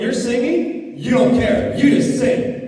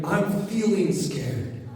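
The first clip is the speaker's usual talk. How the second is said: feeling scared; 3 semitones lower, 6 dB quieter, slower than usual. Shown as a demonstration. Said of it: "I'm not just saying it's scary".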